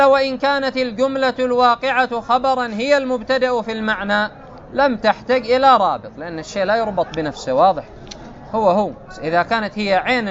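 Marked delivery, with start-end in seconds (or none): 0.0-6.1 raised, measured reading of the source text; formal text reading. Acted. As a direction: read the quoted commentary out formally. Reads the commented text aloud.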